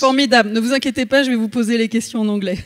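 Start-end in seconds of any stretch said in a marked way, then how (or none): 1.2-2.6 fast, laughing through the words; chuckling while speaking quickly. Real, not acted. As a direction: say it with an amused laugh. Host joking about switching to English.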